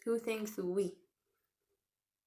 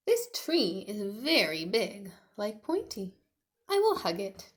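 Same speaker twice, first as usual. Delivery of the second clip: louder, eager little T-Rex; Tiny's voice; 2 semitones higher, 8 dB louder than usual. Acted. Tiny getting ready to find his friend, eager.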